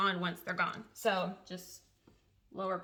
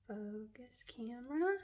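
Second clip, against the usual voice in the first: softly voiced coaxing; soft plea; 2 semitones higher, 8 dB quieter than usual. Real, not acted. Coaxing the camera to focus, soft voiced plea. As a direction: ask the camera nicely.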